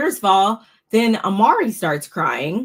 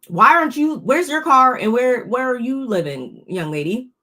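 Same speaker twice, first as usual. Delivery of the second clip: mock scolding; 5 semitones higher, 4 dB louder than usual. Scolding Amari like a parent.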